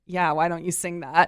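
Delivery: mildly sarcastic imitation of teenagers; kind of sarcastic. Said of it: "kind of sarcastically".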